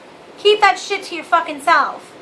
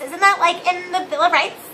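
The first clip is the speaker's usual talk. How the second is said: lightly voiced airheaded Valley Girl; ditzy and breezy, a hint of Valley Girl; mock Valley Girl rambling about the Constitution; 2 semitones higher than usual. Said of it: "I sound like a Valley Girl".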